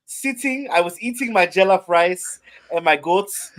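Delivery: high, loud overjoyed player; Chuma Edoga voice. Pretend. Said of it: "You gotta do the voice".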